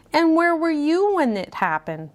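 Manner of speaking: high, pointed accusation; high accusing lady voice. A narrator's reading. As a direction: needle him in a high voice. Missus Peacock accuses.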